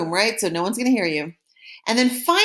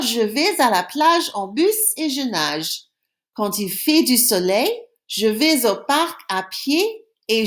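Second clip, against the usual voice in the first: reading aloud. Shown as a demonstration. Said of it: "why don't I read it one more time for you".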